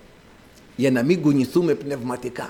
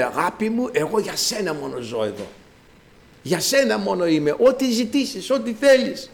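mock lovestruck sweet talk; hammed-up devotion, rising higher toward the end; smitten lover; 4 semitones higher than usual. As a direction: lightly act a man madly in love, pledging himself. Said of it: "ερωτεύονται σφοδρά και λένε".

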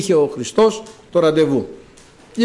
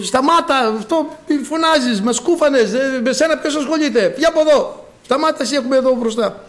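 high, irritated crowd telling him to hush; scolding crowd; 6 semitones higher than usual. Retold or imitated. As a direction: scold the shouting blind man to stop. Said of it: "τον επέπλητον σημαίνει τον μαλώνανε". (ενοχλημένο μάλωμα, ψηλή φωνή)

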